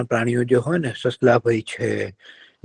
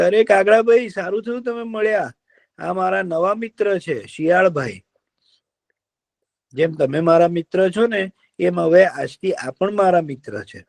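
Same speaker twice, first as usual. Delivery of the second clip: kind deer; 7 semitones higher than usual. Acted. Deer cheers up the sad fox, coaxing. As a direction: soothe him like a gentle deer.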